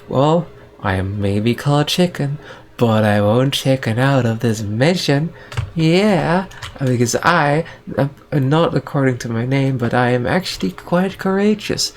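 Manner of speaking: lightly voiced boastful ninja, pitch leaping up on key words; mock-heroic ninja. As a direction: play a plucky ninja declaring courage. Ninja character boasts of courage.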